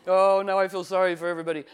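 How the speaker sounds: retold exasperation. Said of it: "I was like".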